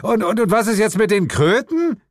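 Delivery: high, loud, stammering question; agitated protest. A narrator's reading. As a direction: stammer it out indignantly, pitch climbing. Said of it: "protestierte ich". (aufgeregt protestierend)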